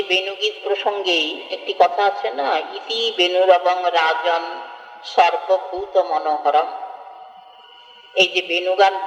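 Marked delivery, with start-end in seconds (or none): 2.6-6.7 slow, measured Sanskrit verse chant; scripture recitation. Acted. Preacher reciting the Bhagavata verse to devotees, slow chant. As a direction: intone the verse slowly and reverently.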